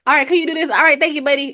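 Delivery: lightly mock a polite coworker's voice; white dude at work. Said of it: "like, a white dude".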